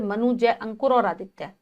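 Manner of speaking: slight break after Manu and after जय, then अंकुर और Aditya; light pauses between names. Shown as a demonstration. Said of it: "हम हल्का हल्का सा रुक रहे हैं". (नामों के बीच हल्का विराम)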